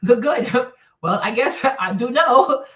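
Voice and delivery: talking through laughter; laughing. Acted. Host playing a wife caught out, laughing admission. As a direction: let laughs break up the words.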